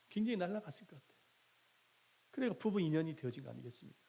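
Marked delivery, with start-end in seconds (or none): 0.1-1.2 laughing through 굉장히 날아갔을 것 같아요, quicker. Retold or imitated. Pastor laughs, repeating the deacon's answer about Eve's joy, laughing.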